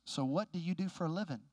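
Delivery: imitating a slightly snide question; understated snide small talk; a little salty. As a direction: retell it with a mild touch of salt. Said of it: "he said it a little bit salty".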